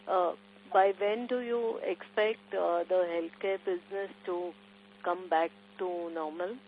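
speaking up so the caller can be heard. Real, not acted. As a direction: raise the voice a little, right into the phone. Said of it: "closer to the phone".

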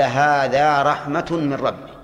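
slow reading with the weight on هذا; slow quoted verse. Shown as a demonstration. Teacher quoting a verse to students, slow. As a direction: read the verse slowly. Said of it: "قال".

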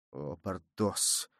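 quiet, slow imploring. Acted. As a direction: gently beg your friend for mercy. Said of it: "умоляющим голосом".

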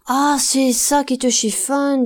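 slow, sneering whispered snicker; mock her with a hushed snicker. A narrator's reading. Zinc worker taunts the laundress, whispering with a snicker. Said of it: "sans cesser de ricaner".

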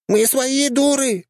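very high squeaky yell; gunner yelling. A narrator's reading. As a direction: shriek it out of the hatch at the other tank. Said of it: "кричала наводчица".

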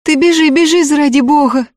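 put-on high urgent girl's voice; hurried girl. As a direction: rush him out the door. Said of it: "торопливо сказала Фенька".

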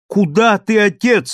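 high, loud call after her father; crying out. A narrator's reading. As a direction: chase him with an alarmed cry. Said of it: "с криком бросилась".

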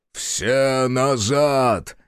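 very slow, drawn-out howl. Acted. Безнос howls back the retreat call, very slow. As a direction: stretch the order into a wail. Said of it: "завыл в ответ Безнос".

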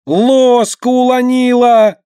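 put-on high, loud toddler wail; howling child. A narrator's reading. A toddler howling at her sister over the dropped spoon. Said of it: "истошно взревела Марьяшка".

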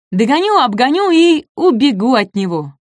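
high, eager boasting voice; boastful little dinosaur. Acted. Маленький динозавр хвастливо, звонко. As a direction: brag like a tiny fast dinosaur.

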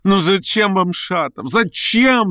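high, slow breathless plea; breathless patter. A narrator's reading. Verkhovensky chasing Stavrogin, breathless high pleading. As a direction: gasp it out, begging. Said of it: "задыхающийся скороговоркой".

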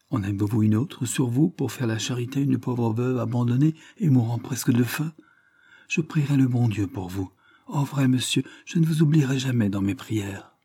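lightly voiced old woman, wheedling; fawning beggar's tone. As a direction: plead sweetly like a begging widow. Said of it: "en changeant tout à coup de ton".

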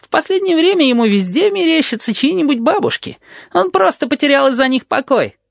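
very high teasing voice; Tabaki giggling. A narrator's reading. Tabaki teases about Blind, very high and gleeful. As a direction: snicker it out mischievously. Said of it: "хихикает Табаки".

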